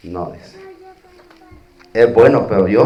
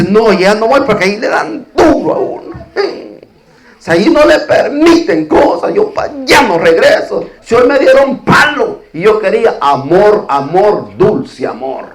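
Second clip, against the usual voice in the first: mock whiny churchgoer, pitched up; mocking complainer; 4 semitones higher than usual. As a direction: lampoon the offended believer who wants only love. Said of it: "Y dice". (el creyente ofendido, imitado en tono burlón y más agudo)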